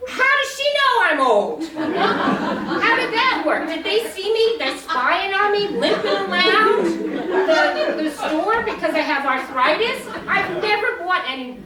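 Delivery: high, loud, drawn-out comic outrage; mock indignation. Comedian suspecting the checkout of spying, mock indignant. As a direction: rant in disbelief, voice up high, stretching key words.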